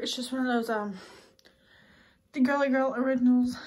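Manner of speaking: breathless after moving about; out of breath and talking. Real, not acted. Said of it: "Sorry, I'm so out of breath".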